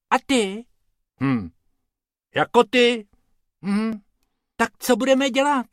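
very high cartoon voices; two worried little rabbits. A narrator's reading. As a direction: trade short, anxious lines in high rabbit voices. Two rabbits talk by river.

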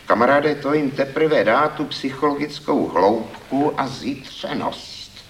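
a critic carried away by enthusiasm; enthusiastic. A narrator's reading. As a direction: sell the idea with zeal.

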